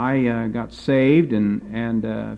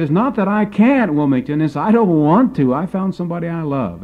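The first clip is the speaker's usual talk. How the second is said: indignant; 5 semitones higher than usual. Retold or imitated. Engaged friend defending his choice, indignant. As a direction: insist you choose this gladly. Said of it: "he became very indignant".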